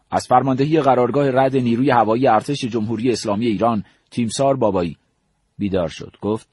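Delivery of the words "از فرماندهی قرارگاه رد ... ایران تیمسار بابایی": mock-formal military report, a bit louder; military announcement. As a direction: announce it lightly like an army officer reporting. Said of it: "با لحن نظامی گفتم". (با لحن رسمی نظامی)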